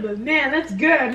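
slow, loud, savoring; emphatic praise. Real, not acted. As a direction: draw it out with relish. Savoring the food.

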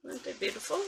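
soft breathy whisper; whispered admiration. Real, not acted. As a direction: whisper it in awe. Admiring the beads.

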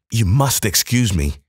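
winded visitor gasping out an apology; gasped. Acted. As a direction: blurt it out winded from the stairs. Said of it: "he gasped".

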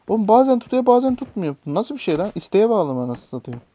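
high, loud, disbelieving complaint; exasperated outburst. Real, not acted. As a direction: vent at the game's unfairness. Exasperated at inconsistent grab. (isyan ederek, yüksek sesle)

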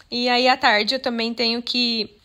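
speaking through hiccups; words broken by hiccups. Real, not acted. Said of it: "tô com soluço".

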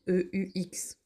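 E U X spelled in a whisper; whispered spelling. Shown as a demonstration. Teacher whispering the spelling to pupils. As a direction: whisper the letters. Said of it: "whispered spelling aside".

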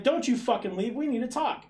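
woman angrily ordering him to stay; imitated angry shout. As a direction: bark it to stop him leaving.

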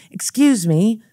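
put-on a light British accent on the dad's reply; lightly voiced British dad. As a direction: lightly mimic a wealthy British father. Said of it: "I hear the British accent".

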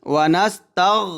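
ওয়া নাস তাগ with a heavy, thick গ; teacher shows the thick ghayn in ওয়া নাস তাগ. Shown as a demonstration. Teacher demonstrates to students: ওয়া নাস তাগ with thick ghayn. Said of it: "গইনটা মোটা করে".

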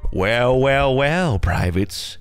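slow, menacing drill sergeant. Retold or imitated. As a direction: drag it out slowly like a drill sergeant. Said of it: "The look they get".

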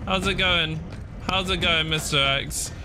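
high, nervous chummy hello; mock-friendly greeting. Gamer greeting Mister X as a buddy, nervously mock-friendly.

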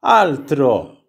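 slow, lightly voiced motherly reassurance; loving, caring mother. Mother reassuring the angry prince, mildly tender. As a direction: soothe gently without hurry, only lightly acted. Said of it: "rispose sua madre amorevole e premurosa".

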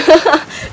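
laughing. Real, not acted. Seller jokes about not clicking in time, laughing. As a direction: break into a quick laugh. Amused at being too slow to order.

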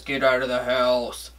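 low, slow, ominous command; imitating a menacing stranger on the phone; mysterious phone caller. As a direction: drop deep and drag out the warning. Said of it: "somebody gets onto the phone and says".

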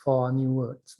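slow, careful English read-out; slow reading of the tip. Shown as a demonstration. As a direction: read out slowly, word by word. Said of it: "เขาบอกว่าให้ใช้".

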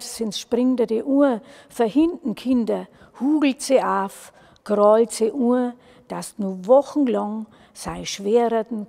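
emphatic, punched dialect verse; urgent poem recitation. Acted. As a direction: drive the warning home phrase by phrase. (eindringlicher Gedichtvortrag in Mundart)

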